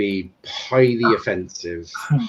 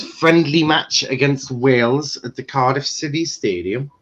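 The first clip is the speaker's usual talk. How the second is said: a barely-there mock Welsh accent; bad Welsh accent; 3 semitones higher than usual. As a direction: read the caption in a weak, put-on Welsh accent. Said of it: "That's a really bad Welsh accent".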